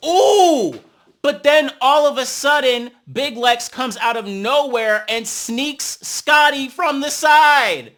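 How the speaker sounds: real shock at the sneak attack; shocked shout. Real, not acted. Viewer stunned by the surprise hit, loud and high.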